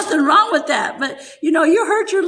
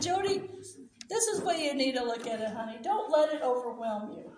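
soft, hushed motherly counsel; gentle reassurance; 11 dB quieter than usual. Retold or imitated. Mother advising daughter called to preach, gentle reassurance. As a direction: reassure quietly, well under full voice. Retold comforting advice to daughter.

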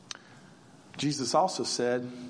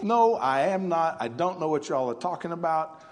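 a retold Peter snapping back in denial; angry denial; 3 semitones higher than usual. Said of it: "Peter just goes off".

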